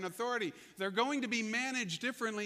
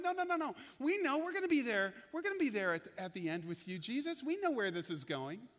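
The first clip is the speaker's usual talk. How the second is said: eager disciples; 3 semitones higher than usual. Retold or imitated. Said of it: "they're like".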